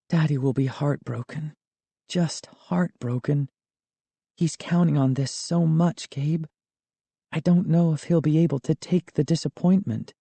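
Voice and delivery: put-on gently sorrowful young girl. A narrator's reading. Sari, sad about father.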